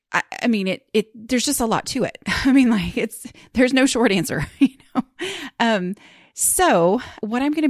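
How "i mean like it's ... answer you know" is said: laughing. Real, not acted. Laughing about writing advice.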